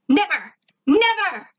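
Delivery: rising to a high loud cry; cried out. A narrator's reading. Zim refuses to let the narrator go, crying out. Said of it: "Zim cried".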